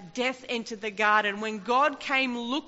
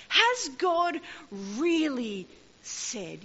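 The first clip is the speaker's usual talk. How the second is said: slippery serpent; 3 semitones higher, slower than usual. Acted. Preacher mimics serpent's question.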